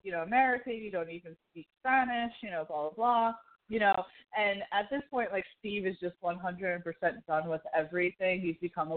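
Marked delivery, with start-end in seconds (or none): 0.0-3.3 lightly voiced angry driver yelling; half-hearted mock rant at an American; angry guy in traffic, mildly imitated; angry driver quote. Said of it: "he's like".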